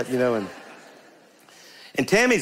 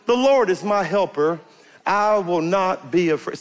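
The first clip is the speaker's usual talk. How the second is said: a raised, bold, sure voice; confident declaration; 6 semitones higher, slower than usual. Shown as a demonstration. Preacher showing the church how to say it boldly, with confidence. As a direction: proclaim it with no fear at all. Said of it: "I'm gonna say with confidence".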